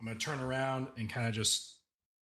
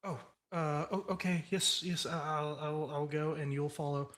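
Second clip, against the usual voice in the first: higher, stammering agreement; flustered assistant; 3 semitones higher than usual. Acted. Assistant told by the boss to go first, flustered. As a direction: fumble nervously through an obedient yes.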